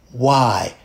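low, quiet, whispered regret; embarrassed whisper. Retold or imitated. Backstage, embarrassed at himself, whispering low and quiet. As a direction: hush the words in shame. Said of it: "And I was like".

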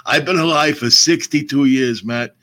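put-on slow, creaky old-timer voice; old man voice. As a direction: talk like a worn-out old man, slowly. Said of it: "I did the old man voice".

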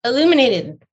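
teacher's reveal. Retold or imitated. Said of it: "finally he said".

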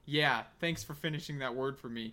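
understated, easily mistaken for sarcasm; sarcastic-sounding. Real, not acted. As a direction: thank them so drily it could be sarcastic. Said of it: "it sounded sarcastic".

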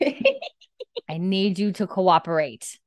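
drawn-out, half-laughing appeal; exasperated plea. Real, not acted. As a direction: stretch the words out, begging the pets. Pleading with misbehaving pets.

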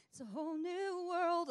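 high and loud, soaring; elated cry. Acted. Forgiven believer on a high, loud and soaring. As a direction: belt it like a joyful chorus.

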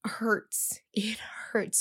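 whispered pain. Retold or imitated. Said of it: "It's so much pain".

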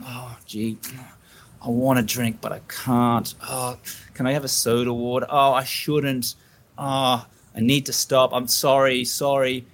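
mock sheepish hemming and apologising; apologetic and sheepish. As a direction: sigh through it like you're embarrassed to ask. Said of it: "apologetically and sheepishly saying".

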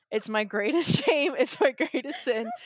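slow, giggling through mock shame; laughing confession. Real, not acted. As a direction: confess it while laughing at yourself.

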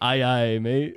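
lightly put-on pirate accent. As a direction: have a playful go at a pirate accent. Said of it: "That's pirates".

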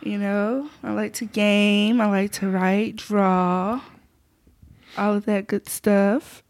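slightly affected, drawn-out self-introduction; put-on introduction voice. Real, not acted. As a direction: list hobbies slowly, in a mildly put-on voice. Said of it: "why am I talking in this voice".

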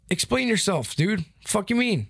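confronting the referee, retold anger; retold angry challenge. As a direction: push back hard on the call. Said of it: "And I said".

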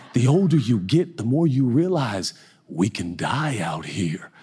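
lightly voiced grave elder, dropping low; Bishop Jakes. Bishop warns preacher about driving, lightly imitated grave voice. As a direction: imitate a solemn mentor, slowing at the end. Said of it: "And he's like".

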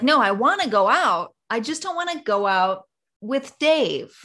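lightly acted, correcting him; frustrated girlfriend. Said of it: "You're like".

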